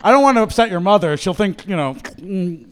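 overdone fake Australian accent; bad Australian accent. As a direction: ham up a clumsy Aussie accent. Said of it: "that went full Tiny Tim".

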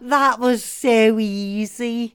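gloating laugh, slow and loud; villainous laugh. Acted. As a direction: cackle over the easy win. Villain gloats after win.

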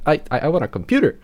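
high, fast, stammering plea; pleading kid. Retold or imitated. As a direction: beg like a little boy asking Dad. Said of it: "and I was like".

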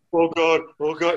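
mock terrified muttered prayer; frightened praying. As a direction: plead to heaven like a scared man. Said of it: "He's, like, praying".

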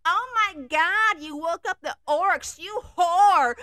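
high, loud shriek; screaming. Acted. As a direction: scream at her in panic. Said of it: "she screamed".

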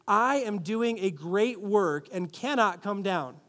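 slow, deliberate recitation; group recitation. Shown as a demonstration. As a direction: read it out together, slowly. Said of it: "Can we read that part in bold together".

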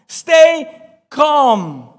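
emphatic shout. Shown as a demonstration. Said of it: "repeated louder".

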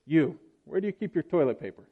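customer line half laughed; telling the punchline while laughing; laughing through quote. Retold or imitated. Preacher delivering the joke's punchline to the congregation, laughing. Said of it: "she turns to the makeup counter employee".

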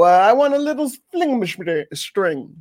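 hammed-up fake Italian accent; bad Italian accent. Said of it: "really bad way of that with the Italian accent".

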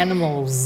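"animals" ending in a buzzing z; "animals" with a drawn-out z at the end; voiced z ending. Shown as a demonstration. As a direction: voice the final s of "animals" as z. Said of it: "ต้องเป็นเสียง z".

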